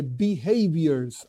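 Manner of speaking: "behaviors" slow and stressed on HAV. Real, not acted. Teacher separating forefathers' conduct from commandments, stressing "behaviors". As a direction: draw out and lean on "behaviors". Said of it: "I stress this word".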